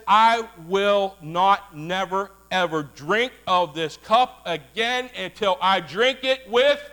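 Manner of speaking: rising call and response; building preacher's call. Acted. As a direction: draw it out and climb to a call. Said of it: "builds to who".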